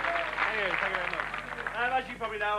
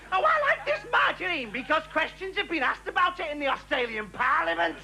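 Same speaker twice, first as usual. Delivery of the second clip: higher, droning bore voice; mock bore; 5 semitones higher than usual. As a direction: play the pompous idiot next door. Impersonating bores, mocking.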